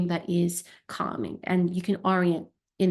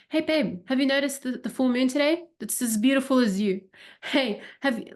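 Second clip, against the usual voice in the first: higher, lightly voiced partner coaxing; gentle partner; 5 semitones higher than usual. A hint of a tender partner, pointing out the full moon to calm her. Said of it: "he starts to orient around you".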